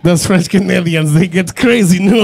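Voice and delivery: hammed-up mock French accent; jokey French accent, tag question at the end; bad French accent. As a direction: put on a terrible French accent. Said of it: "I did the worst French ever".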